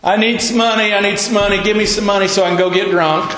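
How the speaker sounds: man on a Chicago street begging for drink money; panhandler's call. Retold or imitated. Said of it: "I heard somebody says".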